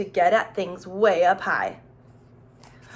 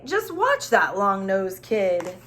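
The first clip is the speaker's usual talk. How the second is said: slow, louder, wide-eyed amazement; amazed townsfolk; 3 semitones higher, 4 dB louder, slower than usual. Acted. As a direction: marvel at the kid, drawn out. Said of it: "everyone in town would say".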